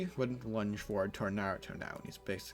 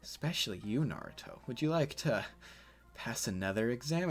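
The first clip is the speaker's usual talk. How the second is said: creepy seductive Kakashi; 2 semitones higher than usual. Acted. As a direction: coo it like a creepy flirt. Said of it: "And Kakashi's like".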